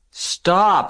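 high, loud panicked scream. A narrator's reading. Pig cuts off sheep's tale of butchering, high scream. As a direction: cut in with a high-pitched yell. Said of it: "screamed Wilbur".

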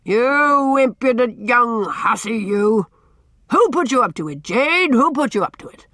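loud, high, blustering fury; angry outburst. A narrator's reading. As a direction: burst out at the impudent child. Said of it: "Then he burst forth again".

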